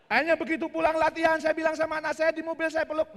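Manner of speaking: loud, high laughing telling; laughing through the words; laughing excitedly. Real, not acted. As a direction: tell it with glee. Laughing, raised storytelling.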